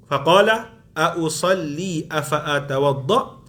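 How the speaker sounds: slow, measured Arabic reading; Arabic hadith recitation. Acted. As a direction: recite the hadith deliberately, phrase by phrase. (bacaan hadis Arab, perlahan dan teratur)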